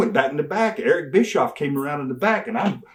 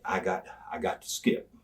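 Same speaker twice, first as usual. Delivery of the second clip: quiet; 6 semitones lower, 9 dB quieter than usual. Retold or imitated. Quietly explaining the plan.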